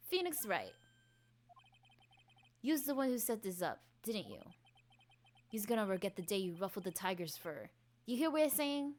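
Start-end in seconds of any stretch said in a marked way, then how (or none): 2.6-8.9 lightly voiced Brooklyn tough; menacing gangster witness. Witness threatening the lawyer, tough gangster voice. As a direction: threaten him like a mobster.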